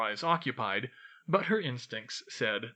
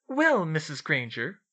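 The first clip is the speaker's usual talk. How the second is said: mock Snape; 4 semitones higher, 5 dB louder than usual. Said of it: "Hermione imitated Snape's acerbic voice".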